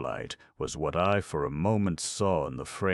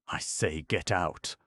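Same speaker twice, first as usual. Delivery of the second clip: sharp dismissal. Acted. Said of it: "my aunt replied sharply".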